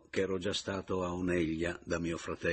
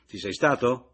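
insistent; 3 semitones higher, 8 dB louder than usual. Acted. Pressing friend about his grave.

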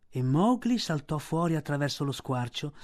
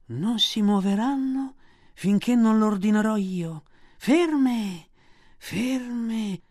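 high, loud command; commanding snake; 6 semitones higher, 3 dB louder, much slower than usual. A narrator's reading. Kaa orders the monkeys to stop, commanding. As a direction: freeze them with your voice.

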